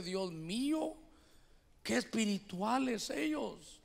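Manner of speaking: soft, drawn-out aside to himself; quiet awe. Retold or imitated. Embarrassed man among spiritual neighbours, quiet awe. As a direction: murmur it in mild awe, slowly. Timid man's awed private thought.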